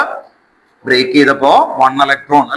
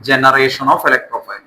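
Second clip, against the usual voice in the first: very slow, each word spaced out; slow dictation; 2 semitones lower, much slower than usual. Shown as a demonstration. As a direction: dictate slowly for writing. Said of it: "ആദ്യം എഴുതണം".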